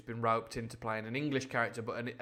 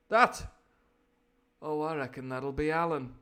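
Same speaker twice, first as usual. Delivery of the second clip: offhand villain's reply; 4 semitones higher, 6 dB louder than usual. Acted. Repeats Silver's answer, less loud.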